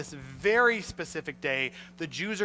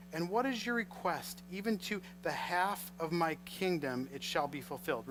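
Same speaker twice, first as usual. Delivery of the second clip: measured, softer Bible reading; scripture reading; 4 dB quieter than usual. Acted. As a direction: read the verses with care. Reads scripture aloud.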